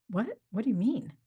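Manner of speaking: put-on baffled kid's reply, rising at the end. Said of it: "He was baffled".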